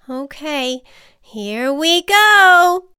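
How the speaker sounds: high, very slow nervous build; nervous butterfly. Acted. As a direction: brace yourself and go. Butterfly braces for takeoff.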